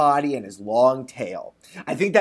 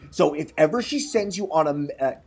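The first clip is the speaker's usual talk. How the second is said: measured storybook reading; lightly performed storyteller; story narration. A narrator's reading. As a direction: read it like a folk tale aloud. Reads a folk tale.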